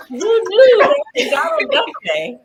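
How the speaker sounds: Donald Duck impression. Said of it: "that's my Donald Duck impression".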